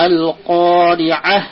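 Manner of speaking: আল কারিয়াহ drawn out slowly; slow recitation. Shown as a demonstration. Teacher recites the opening again. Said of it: "teacher recites the verse".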